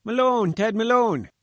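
high, loud plaintive cry of a name; calling out from the gate, a plaintive high bleat. A narrator's reading. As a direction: bleat the name out like a stranded lamb. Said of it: "a plaintive bleat behind us".

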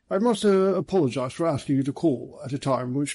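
lightly voiced apologetic police chief; a hint of a polite superintendent; genial police superintendent, apologetic. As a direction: apologise courteously as a senior policeman, lightly in character.

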